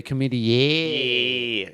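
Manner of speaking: chlamydia with a drawn-out "yeah" ending; Australian "yeah" ending. Shown as a demonstration. Explaining Australian A endings, chlamydia ending in "yeah". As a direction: end chlamydia on a long Aussie "yeah". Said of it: "when it finishes with an A".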